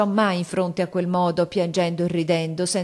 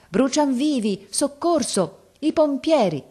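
slow, raised cries for help; crowd shouting; 9 semitones higher, 3 dB louder, slower than usual. Acted. Crowd in front of the burning house, mild mock shouts for help. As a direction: call out as a panicked crowd, pitched up. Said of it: "La folla gridava".

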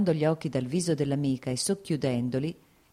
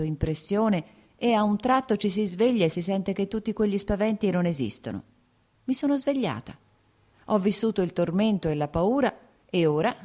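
lightly voiced Anna, lifting higher as her happiness breaks through; a touch higher, eager confession of joy; Anna's confiding voice; 4 semitones higher than usual. Anna tells Dolly she is happy, lightly voiced and rising.

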